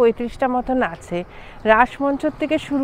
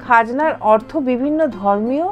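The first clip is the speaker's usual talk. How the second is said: calm storytelling voiceover over music; documentary narration. A narrator's reading. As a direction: narrate the history evenly. (তথ্যচিত্রের ধারাভাষ্য)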